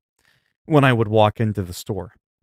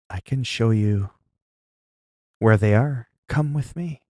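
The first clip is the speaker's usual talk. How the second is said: lightly dreamy, happy store clerk; happy trancy voice. Retold or imitated. Clerk offering to lead a customer to the snack, happy and trancy. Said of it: "like a happy, kinda, like, trancy kind of voice".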